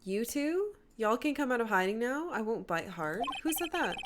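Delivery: easygoing put-on Southern twang; Southern US accent. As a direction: call them over casually in a Southern accent. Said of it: "I don't like doing Southern accents at all".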